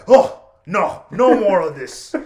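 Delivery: put-on tired old politician groaning, slow; hammed-up fed-up sigh of a candidate; weary groan. Mimicking a worn-out Bernie, slow tired groan.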